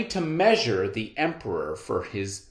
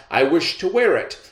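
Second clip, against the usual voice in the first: vain emperor; 2 semitones higher than usual. Acted. Emperor continues command.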